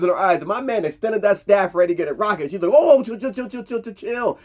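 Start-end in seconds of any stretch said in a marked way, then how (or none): 2.7-4.4 high pleading that drops to a near-breathless hush; mock-tearful begging to back off; retold crying plea. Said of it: "And she's crying".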